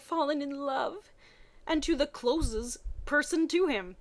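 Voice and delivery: normal talking voice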